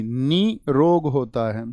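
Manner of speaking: निरोग said slowly and clearly; निरोग drawn out slowly; slow correct form. Shown as a demonstration. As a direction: spell out निरोग at a slow pace. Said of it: "नहीं जी".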